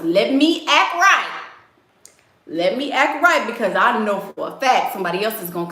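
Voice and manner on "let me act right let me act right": put-on boyfriend's thought. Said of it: "Michaela might go get somebody else".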